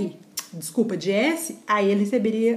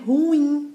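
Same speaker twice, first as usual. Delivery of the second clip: "Ruim" as ru-IM, raised on the IM; stress on second syllable; 4 semitones higher than usual. Shown as a demonstration. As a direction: lift and lean on the "im" in "Ruim". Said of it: "Essa é a tonicidade".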